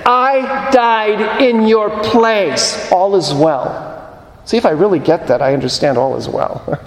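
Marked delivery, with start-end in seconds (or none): 0.0-3.9 voicing Jesus. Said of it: "Jesus saying".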